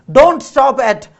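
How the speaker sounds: out of breath urging them on; panting. A narrator's reading. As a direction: gasp it out after running. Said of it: "panted the man".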